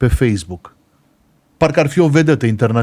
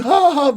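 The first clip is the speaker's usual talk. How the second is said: mock laugh; 11 semitones higher than usual. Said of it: "eu trebuie să râd".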